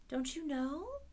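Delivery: astonished he doesn't know; surprised little girl. A narrator's reading. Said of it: "she returned in surprise".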